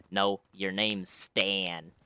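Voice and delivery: put-on slow, drawn-out odd kid voice; a mild take on the odd kid's slow voice. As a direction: drag the words out like the strange boy. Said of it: "The kid's voice was literally like".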